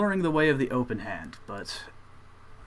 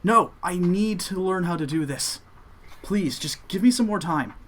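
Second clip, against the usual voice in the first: pleading; 4 semitones higher than usual. Acted. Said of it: "he pipes up and says".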